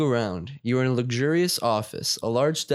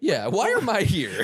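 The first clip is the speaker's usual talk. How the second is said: put-on high, slow whine of a kid; whiny kid asking why; 5 semitones higher than usual. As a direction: drag out the why like a whiny child. In-character question to the director.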